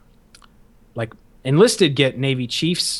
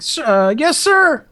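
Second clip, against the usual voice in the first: high recruit voice, climbing after a stumble; hesitant cadet; 12 semitones higher, 3 dB louder, slower than usual. Retold or imitated. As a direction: imitate an unsure recruit forcing out compliance. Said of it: "it's like".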